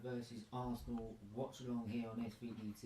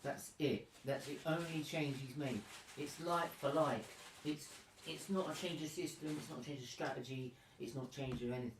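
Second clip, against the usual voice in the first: exasperated rant; 4 semitones higher than usual. Real, not acted. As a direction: vent about the lineup. Ranting about no changes.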